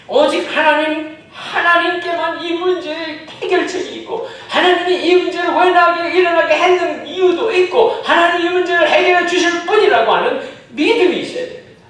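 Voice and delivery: loud, high declaration of faith; full-force preaching. Acted. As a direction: proclaim it with conviction. Fervent proclamation of faith. (힘차게 선포하는 설교)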